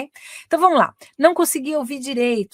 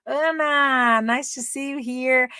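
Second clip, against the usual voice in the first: high, drawn-out hello; lifted, stretched-out welcome; warm greeting; 4 semitones higher, much slower than usual. Real, not acted. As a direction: greet a student in a slow, lilting voice. Greeting students joining the class.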